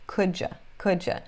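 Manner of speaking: "Could ya" merged into "kudja"; reduced pronunciation. Shown as a demonstration. Teacher repeating the linked sound for students, "Could ya" said as "kudja". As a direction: softly run "Could ya" together as "kudja". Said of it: "ficou claro a pronúncia aqui".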